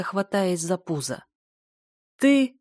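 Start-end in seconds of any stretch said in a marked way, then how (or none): 2.2-2.6 loud, high bark of a word through laughter; snorting with laughter. A narrator's reading. Healer snorting with laughter at the girl. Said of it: "хрюкал он от смеха".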